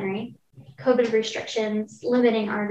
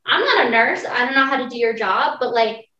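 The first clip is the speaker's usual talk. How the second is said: exasperated; 6 dB louder than usual. Retold or imitated. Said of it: "and I was like".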